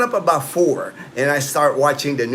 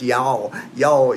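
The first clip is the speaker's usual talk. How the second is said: a touch of Texas in y'all; lightly Texan y'all; Texas accent; 2 semitones lower than usual. Shown as a demonstration. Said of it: "I lived in Texas".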